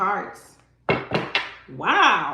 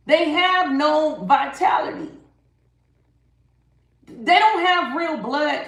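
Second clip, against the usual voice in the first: louder, pressing each word; firm, raised-voice emphasis; emphatic declaration; 3 semitones higher, 5 dB louder than usual. Real, not acted. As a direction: hammer the point home. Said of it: "I don't know why I wanna say this".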